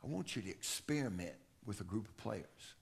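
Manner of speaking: low and soft, barely above a murmur; hushed retold coach; quiet, soft voice. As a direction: speak it softly, like a coach confiding. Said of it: "he spoke real quiet, real soft".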